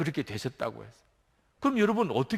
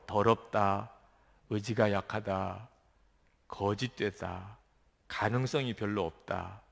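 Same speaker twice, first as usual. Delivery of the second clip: self-condemning; 6 semitones lower, 5 dB quieter, slower than usual. Acted. Voicing self-condemnation slowly.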